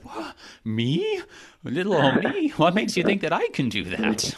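playing Moses, stunned he is chosen; incredulous Moses. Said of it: "It's like".

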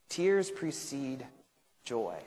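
very slow, spaced-out words; weighty quotation. Real, not acted. Teacher quoting a commentator to the class, slowly and deliberately. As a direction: let each word land, pausing before the last.

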